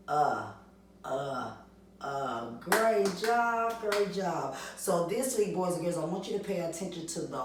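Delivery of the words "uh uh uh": "uh" as a short clipped vowel three times; short U sound. Shown as a demonstration. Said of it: "What does a short U sound make".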